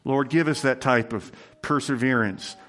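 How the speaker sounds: earnest, measured prayer voice; closing prayer. Acted. Pastor leading the church in prayer after the sermon, earnest. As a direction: pray sincerely for the congregation.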